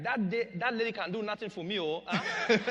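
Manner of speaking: laughing imitation of a dismissive dad; quoting his father. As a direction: scoff like an unimpressed father. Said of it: "he'd be like".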